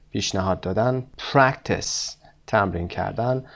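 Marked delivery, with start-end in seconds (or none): 1.3-2.2 "practice" stressed on PRAC; PRAC-tice, weight up front; stress on first syllable. Shown as a demonstration. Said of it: "اونهایی که first syllable هستن".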